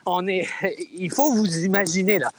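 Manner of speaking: talking while jogging outside; words between running strides. Real, not acted. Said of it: "je suis en train de courir dehors". (en courant dehors)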